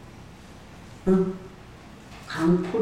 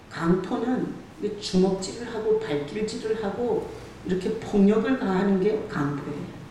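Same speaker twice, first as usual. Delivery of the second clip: normal talking voice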